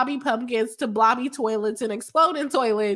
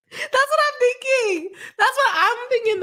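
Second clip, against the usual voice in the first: laughing; 12 semitones higher than usual. Real, not acted. Streamer agrees with a chat joke while laughing hard. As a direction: giggle the words out.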